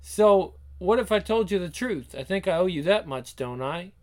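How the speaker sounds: put-on lightly Scottish-accented confession. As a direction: offer the truth in a Scottish lilt. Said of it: "I don't know why I gave her that Scottish accent".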